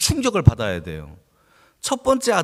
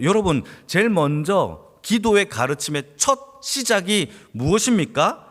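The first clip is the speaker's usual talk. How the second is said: ordinary delivery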